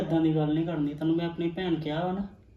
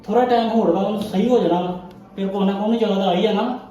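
insisting loudly; 3 semitones higher, 5 dB louder than usual. Acted. Husband pleads with angry wife.

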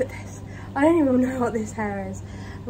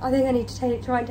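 breathless after housework; catching her breath mid-sentence. Real, not acted. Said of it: "I'm so out of breath".

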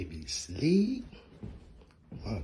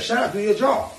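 repeated mock order; 10 semitones higher, 11 dB louder than usual. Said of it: "I said".

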